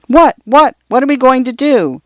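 put-on high, eager child voice tumbling over itself. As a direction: beg to know like an impatient little girl. Eager daughters asking about plans.

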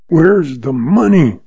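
slow, rasping demand; rasped. Acted. Banker rasps at the outlaw over his money. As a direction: rasp it out slowly, pressing hard. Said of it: "rasped Lem Craig".

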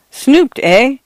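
high, questioning lift; intrigued echo. A narrator's reading. Priest hears why the housekeeper was dismissed, intrigued. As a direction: pounce on the gossip with interest.

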